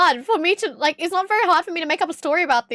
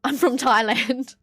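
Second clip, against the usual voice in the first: slow, broad Australian accent; drawn-out Aussie accent; slower than usual. Shown as a demonstration. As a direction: say it in plain, unmistakable Australian. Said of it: "With the most Australian fucking accent".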